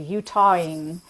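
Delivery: Utahin said the local Utah way, vowel pulled through the nose; Utah pronunciation. Shown as a demonstration. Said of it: "things that people call out as being particularly".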